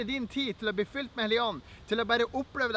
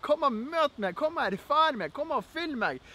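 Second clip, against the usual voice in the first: higher-pitched, repeated appeals in prayer; modelled prayer, eager and beckoning; pleading invitation; 4 semitones higher than usual. Acted. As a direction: call on the Spirit with growing insistence. Models praying to the Holy Spirit.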